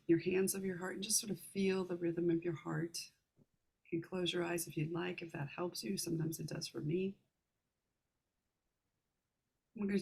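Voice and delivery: calm meditation guide, unhurried, with long pauses; guided meditation. Real, not acted. Meditation leader guiding listeners to relax the heart, calm guided meditation. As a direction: ease listeners gently through each step, leaving room to breathe.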